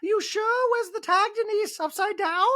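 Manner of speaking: very high mock voice; high prying question; Dorit impression. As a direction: fuss in a high falsetto. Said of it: "Dorit's like".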